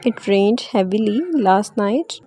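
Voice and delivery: very slow, "rained" ending in a clear d; slow model reading. Shown as a demonstration. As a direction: dictate slowly, "rained" with a d. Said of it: "ड के sound pronounce करेंगे". (धीमे-धीमे, "rained" में साफ़ ड)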